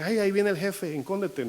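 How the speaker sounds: a hint of a scared worker ducking the boss; lightly acted panic at the boss coming; mock alarm. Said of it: "así como que".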